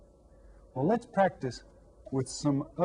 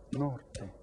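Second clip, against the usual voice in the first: repeated demonstration; 8 dB quieter than usual. Shown as a demonstration. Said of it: "Say it again".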